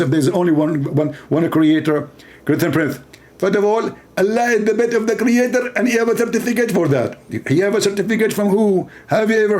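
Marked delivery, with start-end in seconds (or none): 2.4-7.2 a higher, put-on smug preacher; a lightly voiced, self-satisfied preacher; mock Zakir Naik. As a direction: answer with mock certainty. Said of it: "He speak like this".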